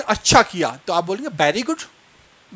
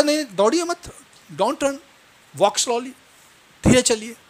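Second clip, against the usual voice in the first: higher-pitched mock call to pupils; acted teacher's instruction; 5 semitones higher than usual. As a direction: gently call running children to order, pitched up. Teacher calling to running pupils.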